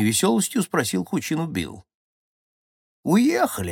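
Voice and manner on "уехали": lightly voiced feeble old man; a hint of a trembling old man; weak shaky old voice. A narrator's reading. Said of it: "слабым голосом, так же дребезжащим".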